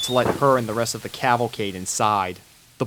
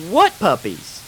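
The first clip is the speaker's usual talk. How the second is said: puzzled Southern; 8 semitones higher, 4 dB louder than usual. Acted. Applejack puzzled.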